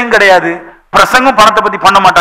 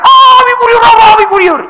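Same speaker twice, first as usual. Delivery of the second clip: mock awe; 12 semitones higher than usual. Mimics people awed by the spiritual. (கிண்டலான பரவசக் குரல்)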